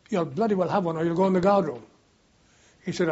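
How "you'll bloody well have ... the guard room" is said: imitated irate quartermaster, louder; stern order. Quartermaster threatens a stubborn soldier with the guard room, stern and louder. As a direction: lay down the law as a quartermaster.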